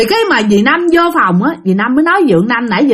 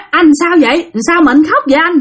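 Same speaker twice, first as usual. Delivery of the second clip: higher-pitched acted questions; retold worried questioning; 5 semitones higher than usual. Wife asking her crying husband, higher-pitched retold questions. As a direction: imitate a wife asking what is wrong.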